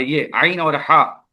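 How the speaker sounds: आइन and हा drawn out slowly from deep in the throat; slow throat letters. Shown as a demonstration. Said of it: "वो बीच वाले". (आइन और हा को गले से धीरे खींचकर)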